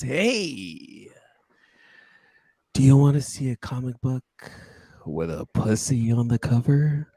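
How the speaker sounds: sultry voice. Shown as a demonstration. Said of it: "let me do the sultry version".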